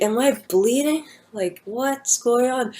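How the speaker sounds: high, slow, bewildered question; confused panic. Retold or imitated. Woman waking on the floor asking the crowd, bewildered and high. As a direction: sound lost and scared, drawn out. Dazed after seizure, asks people.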